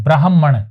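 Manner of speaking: ब्राह्मण with the weight on the held m; stress on the m. Shown as a demonstration. Teacher shows where the stress falls, on the m. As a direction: lean into the m of ब्राह्मण. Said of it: "जोर मैं पर लगाना है".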